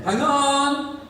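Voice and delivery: high loud call to the door. Acted. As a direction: shout it through the flat. Calling to door buzzer.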